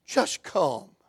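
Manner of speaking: soft, begging plea; pleading father. Acted. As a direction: beg softly for your child. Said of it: "looked up at Jesus and said".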